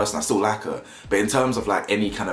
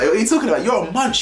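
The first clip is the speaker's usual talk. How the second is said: mock scorn; 10 semitones higher, 5 dB louder, faster than usual. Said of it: "Anton looked at Mitch like".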